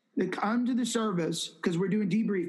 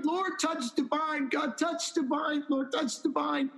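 higher, slow imitated intercession; retold fervent prayer; 6 semitones higher than usual. Young man interceding for Divine, retold as fervent prayer. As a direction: lightly act out a pleading prayer, drawn out. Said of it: "he's weeping and he's praying".

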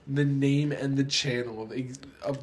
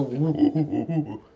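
loud ape hooting woo; monkey hoots; 3 dB louder than usual. Pretend. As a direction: hoot like a big ape. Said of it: "Wow, that was, that was impressive".

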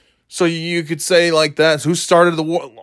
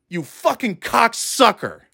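slow, higher-pitched angry insult; venomous cursing; 5 semitones higher, slower than usual. Real, not acted. Podcaster cursing politicians mid-rant, venomous. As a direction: spit the insult out word by word.

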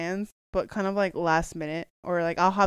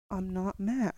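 softer mock denial through clenched teeth; 5 dB quieter, slower than usual. Denying anger to partner in a retold spat, through the teeth. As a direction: imitate insisting calm with teeth clenched. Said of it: "I'm just talking through my teeth".

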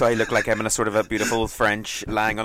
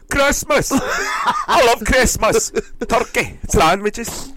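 high, loud Glaswegian gush; excited Scottish squeal, much higher; mock Scottish accent; 13 semitones higher, 7 dB louder, much slower than usual. Copying the Scottish manager, high loud Glaswegian. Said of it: "he has to adapt their accent".

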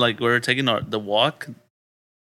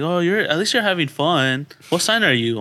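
put-on quoted girl; 5 semitones higher than usual. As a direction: lightly mimic a chatty girl. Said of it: "their friends come up to me".

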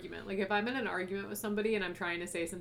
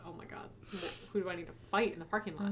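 hushed alarm; 5 dB quieter than usual. Retold or imitated. Friend alarmed at work.

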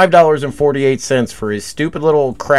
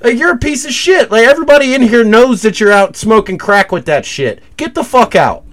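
much higher, louder angry shout; retold furious shout; 11 semitones higher, 4 dB louder than usual. Retelling screaming at the crackhead to get out, furious high shout. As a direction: blast him out of the store. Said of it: "I said".

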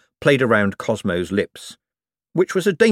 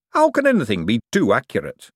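Hubert voice; 3 semitones higher than usual. Acted. Hubert puzzled.

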